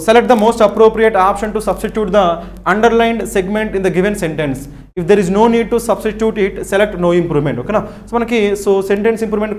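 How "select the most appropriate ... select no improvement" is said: deliberate, very slow reading of the instructions; slow exam reading. Shown as a demonstration. Teacher reading the instructions to students, very slowly. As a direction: read each word out slowly for students.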